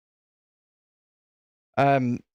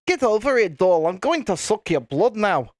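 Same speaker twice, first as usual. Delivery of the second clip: Scottish vampire; 3 semitones higher than usual. Pretend. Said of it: "Imagine a Scottish vampire".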